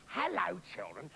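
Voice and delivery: low gruff failed sweet voice. Acted. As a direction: drop the voice too low. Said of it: "No, no, no".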